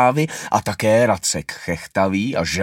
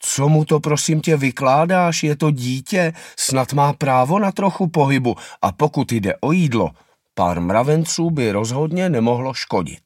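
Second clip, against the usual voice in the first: higher, pleading mother's voice; mother defending her little one to the father; sympathetic mother; 4 semitones higher than usual. Acted. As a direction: take the child's side, gently protesting. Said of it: "maminka má s malým soucit".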